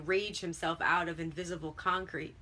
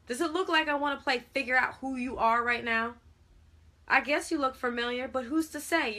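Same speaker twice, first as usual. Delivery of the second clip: exasperated, high and loud; loud, irritated tirade; beside himself with irritation; 5 semitones higher, 6 dB louder than usual. A narrator's reading. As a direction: rant at a kid you want gone. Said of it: "Henny was beside himself in irritation".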